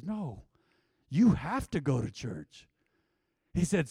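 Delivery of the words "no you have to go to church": slow, firm mock insistence; mock serious. Imitating the husband correcting his wife, slow and serious. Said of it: "He got serious with his wife".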